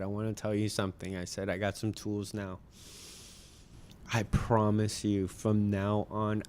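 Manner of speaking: sincere promise. Retold or imitated. Father's promise to kids.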